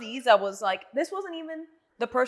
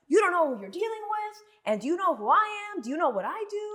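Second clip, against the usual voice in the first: mimicked ranting caller; 8 semitones higher than usual. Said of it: "they just go off on a rant".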